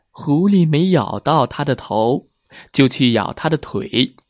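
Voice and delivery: 狐狸没咬到它的头 whispered, unvoiced, rising on 狸; hushed storyteller whisper with 狸 lifted. Shown as a demonstration. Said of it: "whispered take of the line".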